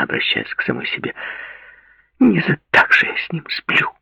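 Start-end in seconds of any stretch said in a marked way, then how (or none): 2.2-3.9 whispered mutter. A narrator's reading. Muttering to herself.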